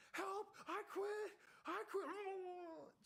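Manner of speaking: high, loud desperate pleading; panicked quitting scream. Retold or imitated. Drowning recruit screaming to instructors that he quits. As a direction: beg to be pulled out, screaming.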